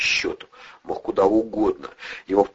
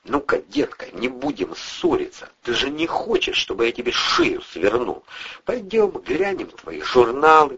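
menacing through teeth; 7 semitones higher than usual. A narrator's reading. Andrei threatening the nurse in Atasov's voice, menacing. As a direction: threaten her coolly like a gangster. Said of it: "процедил Андрей голосом Атасова".

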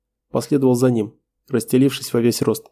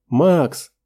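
desperate cry; 4 semitones higher than usual. Acted. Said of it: "крик девушки".

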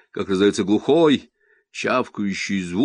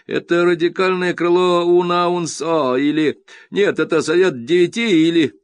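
put-on child's eager voice; 9 semitones higher, 6 dB louder than usual. A narrator's reading. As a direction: muse aloud like a keen boy. Boy speculating excitedly.

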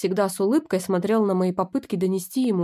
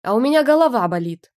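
louder, higher snapping retort; loud sulky snap; snapped back; 4 semitones higher, 6 dB louder than usual. Acted. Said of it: "огрызнулась я".

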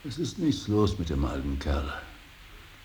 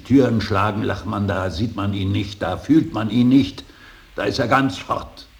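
rising, louder and higher to a cry; bitter outburst; 5 semitones higher, 8 dB louder than usual. Acted. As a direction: let it burst out in anguish. Bitter outburst about slamming doors. (verzweifelt aufbrausend)

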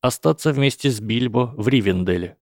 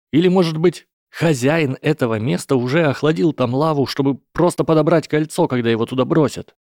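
put-on higher, earnest young hobbit; 6 semitones higher than usual. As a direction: argue urgently, pitched high. Frodo voiced by narrator.

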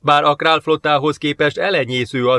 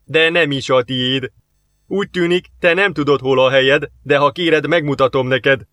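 bellowed; 3 dB louder than usual. Acted. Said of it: "bődült el Soamta".

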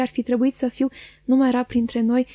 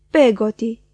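louder call of her name; mild cry out; 5 dB louder, slower than usual. Acted. Young man recognising his old nurse, calling out louder. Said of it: "i-am strigat".

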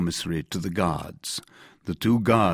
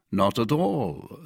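slow, composed denial; calm reply; 5 semitones higher, slower than usual. A narrator's reading. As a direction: answer calmly, unruffled by the outburst. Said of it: "said Athos calmly".

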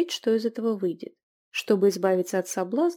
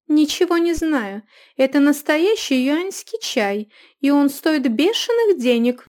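loud, higher threatening woman; threatening innkeeper; 5 semitones higher, 7 dB louder than usual. A narrator's reading. Innkeeper threatening to call the stablemen.

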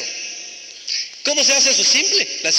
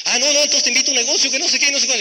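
mock overeager pitch; 5 semitones higher, faster than usual. Mocking overeager recruiter.

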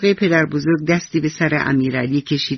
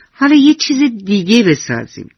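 put-on eager child; 6 semitones higher, 4 dB louder than usual. Child wrecks house, wants more.

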